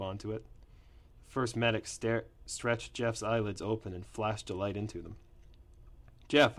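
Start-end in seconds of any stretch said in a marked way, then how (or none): 6.3-6.6 called out. A narrator's reading. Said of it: "I said".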